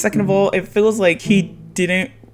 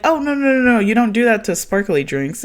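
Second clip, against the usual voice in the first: mock scolding; 6 semitones higher than usual. Imitates wife scolding excited husband.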